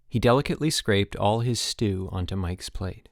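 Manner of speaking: ordinary delivery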